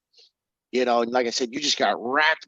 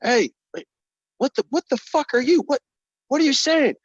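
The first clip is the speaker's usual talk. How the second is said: high, loud frantic yelling; frightened high shouting that turns to confusion; panicked yelling; 13 semitones higher, 4 dB louder than usual. Acted. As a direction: yell in rising panic as it closes in. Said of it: "Then you hear H yelling".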